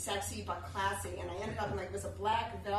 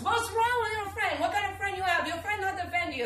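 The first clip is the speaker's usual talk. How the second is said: higher, louder indignant West Indian voice; West Indian accent; 10 semitones higher, 7 dB louder than usual. Retold or imitated. Cab driver outraged for his passenger, West Indian accent. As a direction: take her side in West Indian patter. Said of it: "West Indian accent".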